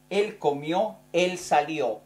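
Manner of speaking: comió and salió with the last syllable clearly stressed; teacher marking the accent: comió, salió stressed at the end; stress on the final O. Shown as a demonstration. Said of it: "en la tercera persona lleva acento la O".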